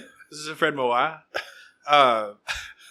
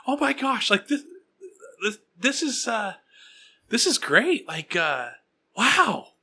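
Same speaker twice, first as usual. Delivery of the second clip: gushing mom; 6 semitones higher, slower than usual. Retold or imitated.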